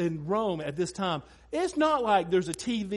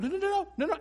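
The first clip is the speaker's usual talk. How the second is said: laughing no; 10 semitones higher, much faster than usual. Retold or imitated. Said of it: "I was like".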